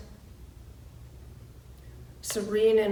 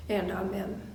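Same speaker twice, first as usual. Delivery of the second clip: whispered amen; 2 semitones lower, 6 dB quieter than usual. Real, not acted. Closing the reading with amen.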